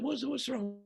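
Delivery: soft gentle concern. Retold or imitated. Asking the upset owner again.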